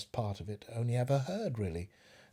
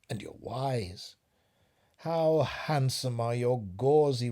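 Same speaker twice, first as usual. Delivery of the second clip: flattering spider; 2 semitones higher, slower than usual. Acted. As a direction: purr the compliments to lure her in. Cunning spider flatters the fly.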